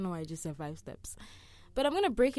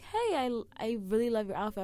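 weird animated voice; 3 semitones higher than usual. Shown as a demonstration. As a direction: gush like a cartoon fan. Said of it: "That's just a very weird animated voice".

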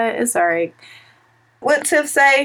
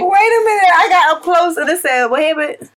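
surprised; 7 semitones higher, 4 dB louder than usual. Real, not acted. Shocked at the mirror.

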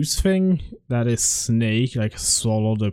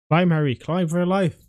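excited urging; 5 semitones higher, faster than usual. Real, not acted. Urging game character to escape.

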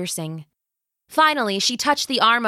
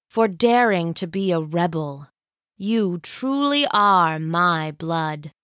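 scheming villain queen. Acted. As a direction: savor every word like a tyrant. Villain grandmother speaks.

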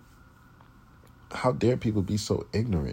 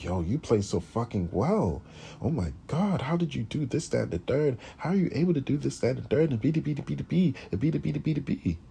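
higher, fawning fan voice, piling on questions; mock gushing praise; 7 semitones higher than usual. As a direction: imitate fake amazement, high and eager. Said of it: "on the dick and be like".

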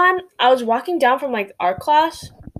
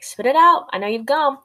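mock stern order; 4 semitones higher than usual. Retelling the teacher catching her with candy, mock stern. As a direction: raise the voice on spit it out.

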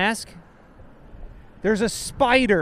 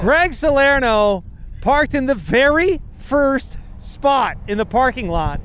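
slow, emphatic announcer tone; mock announcement. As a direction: proclaim it slowly like a scandal. Mock announcing Greg's parking.

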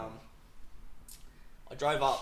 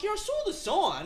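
mock sheepish reply; 5 dB louder than usual. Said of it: "I'm like".

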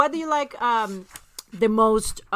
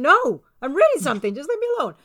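louder, rising to a high mock protest; retold irritated refusal; 4 semitones higher, 4 dB louder than usual. Replaying a spat over reading a text, exasperated. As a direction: brush him off, hammed-up exasperation. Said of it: "he gets so mad".

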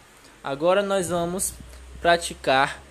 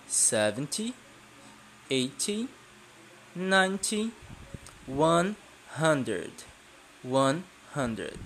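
teacher counting; 5 dB quieter, slower than usual. Shown as a demonstration. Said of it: "de dezena em dezena".

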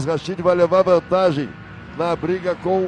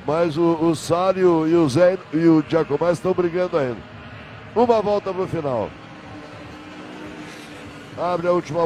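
motorsport commentator. Real, not acted. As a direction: lively race play-by-play. Live race commentary.

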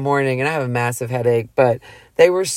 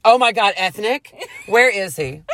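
higher, gushing imitation of a thrilled girl; eager retold excitement; 5 semitones higher than usual. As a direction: act out a boy-crazy gasp of interest. Retells girl's eager reaction.

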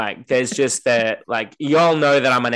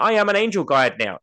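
mock smug; 8 semitones higher than usual. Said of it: "done an online course and".

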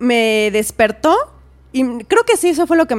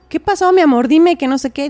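higher, louder worried calling of a husband; 4 semitones higher, 4 dB louder than usual. Retold or imitated. Husband calling to his sleepwalking wife, worried and raised. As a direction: retell the husband calling to her, pitched up and pushed louder.

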